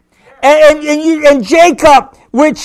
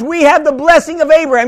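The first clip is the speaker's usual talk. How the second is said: preached declaration; faster than usual. Shown as a demonstration. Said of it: "You could turn around and say".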